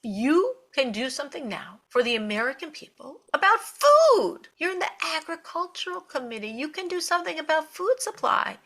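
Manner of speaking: high-pitched, urging revelation with a burst on "food"; excited encouragement. Retold or imitated. Rebbe showing congresswoman her chance to help, excitedly. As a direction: act out a mentor spotting a great opportunity.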